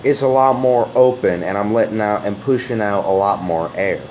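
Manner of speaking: lightly drawn Texan voice pushing air out; Texan accent demo. Shown as a demonstration. Demonstrating a Texan accent for a New Jersey viewer, open Texan accent. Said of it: "it sounds a little something like this".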